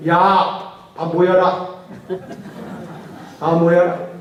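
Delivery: loud summoning call; calling his underlings. Retold or imitated. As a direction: bark out a call to gather the troops. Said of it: "자기 부하들을 불러요".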